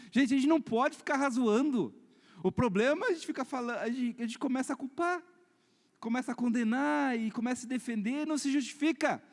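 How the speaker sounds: high-pitched, emphatic admonishing; forceful preaching. Real, not acted. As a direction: warn the congregation earnestly from the pulpit. Exhorts the congregation. (pregação em tom de exortação)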